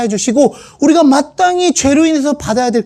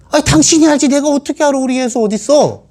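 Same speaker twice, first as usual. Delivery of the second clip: higher, defensive retort; flustered husband; 5 semitones higher than usual. Acted. Joseph snaps back at his wife, flustered. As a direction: toss the question back, rattled.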